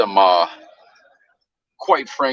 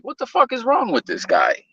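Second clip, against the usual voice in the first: high, exasperated "what the fuck"; outraged disbelief; 11 semitones higher than usual. Retold or imitated. Host retelling the crew's outrage on the new live, high. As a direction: vent disbelief to the chat.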